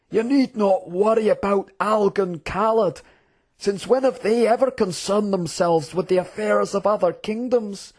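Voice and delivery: high, lilting dismissive general; scoffing. Acted. General dismissing the prince's fears, scoffing. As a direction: wave away the worry with stretched-out disdain. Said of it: "said the general in a scoffing tone".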